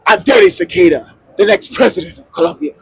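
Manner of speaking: slightly hammed-up candidate's announcement; dramatic self-introduction. Departing candidate gives his name to tourist, dramatic announcement. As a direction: declare your name and title with mock importance. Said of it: "Maybe a little less dramatic".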